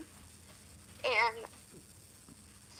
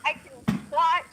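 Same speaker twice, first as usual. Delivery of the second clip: phone speaker; 4 dB louder than usual. Real, not acted. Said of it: "So I'm on my phone talking to you".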